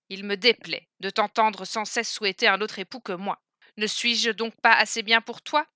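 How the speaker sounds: reproche plus fort, colère contenue; un mari vexé qui gronde sa femme; fâché. Acted. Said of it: "se fâcha". (le mendiant fâché reproche ses soupirs à la princesse)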